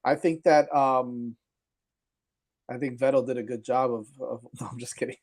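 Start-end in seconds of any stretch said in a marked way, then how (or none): 2.7-5.2 mock praise breaking into laughter. Real, not acted. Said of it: "I tried to keep a straight face".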